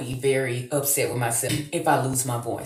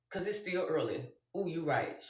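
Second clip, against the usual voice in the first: hushed; 13 dB quieter than usual. Real, not acted. Hushed aside to someone.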